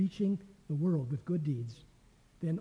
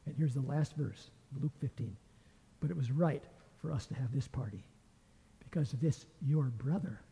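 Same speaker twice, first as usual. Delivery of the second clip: softer, lower, gentle and patient; tender reassurance; 3 semitones lower, 5 dB quieter than usual. Acted. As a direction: speak to him softly like a loving father. Father gently answers elder son.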